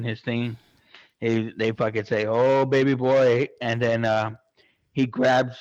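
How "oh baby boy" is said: put-on slow, drawn-out Southern announcer call on boy. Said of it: "he talked real Southern".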